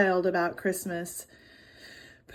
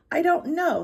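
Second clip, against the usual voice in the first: sister snaps back, louder and higher; snapped; 8 semitones higher, 6 dB louder than usual. A narrator's reading. Big sister snapping at her little brother. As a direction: bite the words off at him. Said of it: "Holly snapped".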